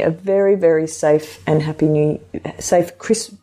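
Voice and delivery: speaking without teeth. Real, not acted. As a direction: talk with your teeth out. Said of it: "I'll put my teeth back in".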